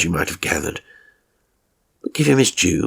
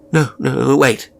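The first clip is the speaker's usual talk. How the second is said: louder, urgent no, no, wait; calling back; 4 semitones higher, 4 dB louder, slower than usual. Acted. Old man calling his carer back before he leaves. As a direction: stop him leaving the room.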